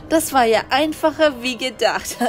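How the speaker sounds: smug villain with a lightly voiced chuckle; gloating villain. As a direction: gloat over the easy ransom. Kidnapper gloats to partner.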